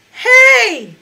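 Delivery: high, loud, forced and metallic shout; forced high note. Shown as a demonstration. Teacher demos a forced, metallic high note. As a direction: push the high note without opening the throat. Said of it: "Let's take a high note without toning it".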